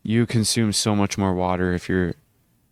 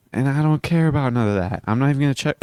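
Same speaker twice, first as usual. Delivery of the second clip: talking through hiccups; catching hiccups between words; 6 semitones higher, faster than usual. Real, not acted. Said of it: "I have the hiccups".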